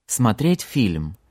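Смотреть фильм said slowly for learners; slow and clear. Shown as a demonstration. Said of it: "To watch a film".

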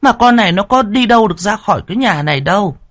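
high, fretful woman; third wife voice. A narrator's reading. Third wife counting the months, worried.

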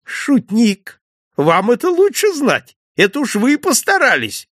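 high, loud teasing exclamations of a merry innkeeper; laughing jest. Acted. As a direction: tease him as you laugh it off. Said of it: "Хозяин громко расхохотался". (хозяин со смехом дразнит гостя, высоко и громко)

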